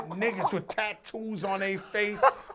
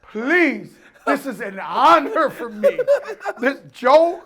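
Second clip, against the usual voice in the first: slow, grandly emphatic delivery; theatrical mock-solemn pledge; hammed-up retold reply; 3 semitones higher, slower than usual. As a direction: savour each phrase like a big announcement. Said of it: "I said like this".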